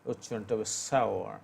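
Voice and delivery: "সাওয়া" with the r almost silent; pronunciation demo. Shown as a demonstration. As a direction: say "সাওয়া", dropping the r. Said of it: "নব্বই ভাগ উচ্চারণ হবে না".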